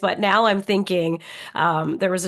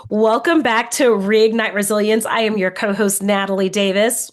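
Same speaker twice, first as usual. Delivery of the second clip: sultry voice. Real, not acted. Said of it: "with a sultry kind of voice today".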